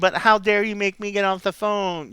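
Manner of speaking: high, loud, hammed-up outrage; exaggerated offended protest; mock teenage indignation. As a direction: play an affronted teen hogging the phone. Acted indignant teen protesting.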